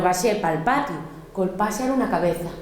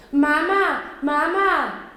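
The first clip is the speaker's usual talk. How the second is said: llamando a mamá; 6 semitones higher, much slower than usual. Acted. Niña llama a su madre.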